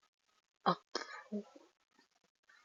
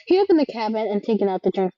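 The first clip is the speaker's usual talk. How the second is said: faster, louder re-read; 5 dB louder, faster than usual. Shown as a demonstration. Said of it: "that's wrong".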